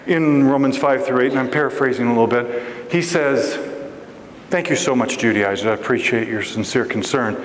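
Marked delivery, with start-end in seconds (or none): 4.5-7.4 low, composed thanks; calm, polite reply. Acted. Paul politely answering the Judaizers' warning, calm reply. Paul's measured reply to the objectors.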